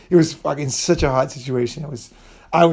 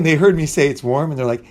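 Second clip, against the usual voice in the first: ordinary delivery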